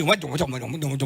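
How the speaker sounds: low, soft grumbling under the breath; grumbling complaint. Retold or imitated. Preacher re-enacts his griping in the Starbucks queue, low muttered grumbling. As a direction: imitate grumbling to yourself in a queue. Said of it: "saya udah komplain nih".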